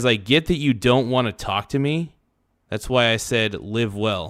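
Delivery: plain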